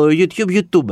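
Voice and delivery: YouTube said "you-tyoob"; English pronunciation. Shown as a demonstration. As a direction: put a y-glide after the T in YouTube. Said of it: "οι Άγγλοι λένε το".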